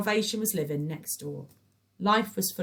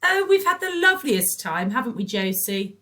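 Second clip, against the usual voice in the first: gushing; 8 semitones higher, 10 dB louder than usual. A narrator's reading. Patricia gushes.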